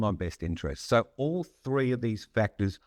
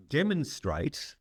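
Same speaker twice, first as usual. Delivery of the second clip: "demonstrate" slowed right down and lifted high on its own; stress on demonstrate; 5 semitones higher, slower than usual. Real, not acted. Speaker tells leaders to show care, stressing "demonstrate" slow and high. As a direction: lean hard into "demonstrate", slow and raised, with a pause before and after. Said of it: "I emphasize that word demonstrate".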